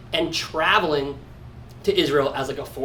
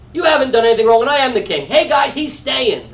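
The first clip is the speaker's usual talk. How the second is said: loud, raised-pitch declaration; kingly proclamation; 7 semitones higher, 6 dB louder than usual. Acted. Achish as king overruling his men, loud acted proclamation. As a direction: announce it forcefully to everyone.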